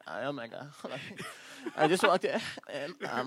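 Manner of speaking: laughing imitation of a drunk voicemail; mock drunk caller. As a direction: play the drunk girl, slowing on the words. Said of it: "she really is like".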